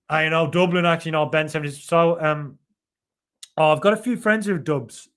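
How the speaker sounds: attempted Dublin accent. Shown as a demonstration. Streamer trying friends' accent on request, Dublin accent. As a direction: have a tentative go at a Dublin accent. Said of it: "it's a very specific accent".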